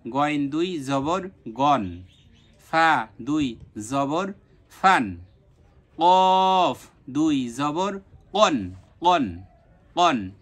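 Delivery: slow drawn-out spelling, then the syllable; slow letter drill. Shown as a demonstration. Teacher drills tanween letters for students, slow and clear. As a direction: spell গইন দুই জবর গন slowly, then say the joined sound crisply. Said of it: "আপনি আবারও নিজে নিজে try করে দেখুন".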